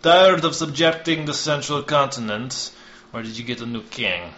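high, loud scornful jab that settles by its end; sarcastic retort. Acted. Ryu mocking the envoy, sarcastic and sharp. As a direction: needle him with scorn.

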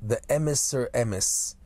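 emes said the Yiddish way, slowly; Yiddish accent. Shown as a demonstration. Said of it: "Yiddish vernacular accent".

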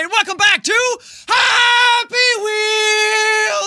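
long, stretched-out yell of the show name; drawn-out shout. Acted. A YouTuber yelling his show intro at the fans. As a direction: bellow it slowly and hold every vowel.

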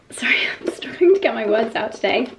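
breathy whispered apology with a laugh; whispered aside. Real, not acted. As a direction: whisper an embarrassed sorry to the camera. Whispered apology after fumbling words.

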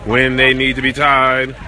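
dad yelling from the stands as son races; cheering shout. Real, not acted. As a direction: scream him on to the finish. Dad yelling at son's race.

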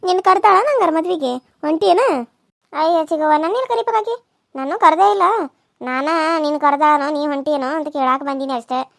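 fish for news about the wedding invite; nosy village aunt. Acted.

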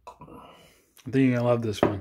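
slow whispered tease; teasing whisper. Real, not acted. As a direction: whisper it slyly. Teasing whisper before reveal.

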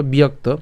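বিয়ক্ত with the ya glide, not Bengali byakto; teacher shows বিয়ক্ত; Sanskrit pronunciation. Shown as a demonstration. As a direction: say বিয়ক্ত as bi-yak-to, Sanskrit style. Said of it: "সংস্কৃত উচ্চারণ করলে কেমন হবে".

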